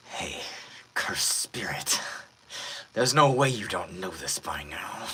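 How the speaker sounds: breathy, knocked-out villain; shaky injured villain. Acted. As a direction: drag the words out on weak breath. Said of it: "at the beginning kind of shaky".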